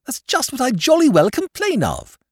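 high, loud complaining rant; aggrieved outburst. Acted. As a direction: pour out years of grievance. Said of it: "he cried".

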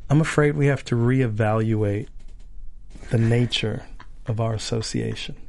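lightly acted breakup, low and quiet; mock breakup scene. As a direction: play a soft, earnest breakup. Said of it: "it's a breakup scene".

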